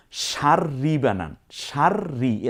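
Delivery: সার্রি with the r rolled and held double; doubled r. Shown as a demonstration. Teacher explaining tashdid, সার্রি with doubled r. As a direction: lean on the r in সার্রি so it sounds twice. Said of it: "র কয়বার হলো এখানে".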